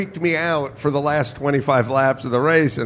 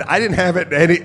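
higher, louder defensive babble; retold flustered protest; 8 semitones higher, 4 dB louder than usual. Driver answering the guy about pit mode, flustered protest.

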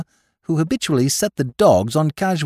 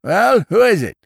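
raised, loud snarl at a caller; impatient growl; 10 semitones higher, 6 dB louder than usual. A narrator's reading. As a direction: growl it out with irritation. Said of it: "the same voice growled impatiently".

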